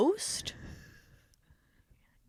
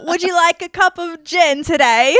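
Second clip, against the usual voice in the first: ASMR roleplay voice; 6 semitones higher, 8 dB louder than usual. Pretend. Mimics ASMR role-play host.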